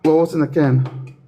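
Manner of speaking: words running together from drink; slurring words. Real, not acted. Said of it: "now you're slurring your words".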